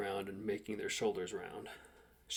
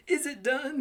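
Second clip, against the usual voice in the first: much higher, louder acted question; married man's voice; 7 dB louder, slower than usual. A narrator's reading. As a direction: pitch it up high, in character. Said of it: "the responsible married man finding his voice".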